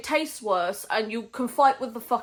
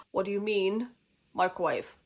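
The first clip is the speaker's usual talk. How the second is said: incredulous; 2 semitones lower than usual. Retold or imitated. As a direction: ask "microwave" as if it's absurd. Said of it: "he answers her in disbelief".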